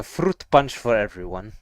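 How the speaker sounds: lightly imitated German text-to-speech voice; a hint of a German robot announcer. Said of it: "the German English text-to-speech guy".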